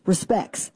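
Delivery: Respects said as "respecks", dropping the t; Ozark pronunciation. Shown as a demonstration. Spelling out the local Ozark way to say Respects. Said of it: "R E S P E C K S".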